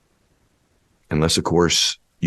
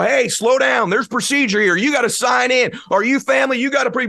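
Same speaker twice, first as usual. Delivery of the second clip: mock officious nurse. Hospital staff stopping the parent at the door: high officious nagging. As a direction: play a rule-bound receptionist stopping you. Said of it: "they go".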